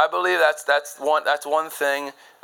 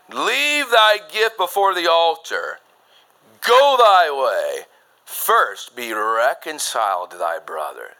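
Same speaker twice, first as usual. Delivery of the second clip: commanding proclamation; 4 dB louder, slower than usual. Acted. Preaching climax, commanding scripture.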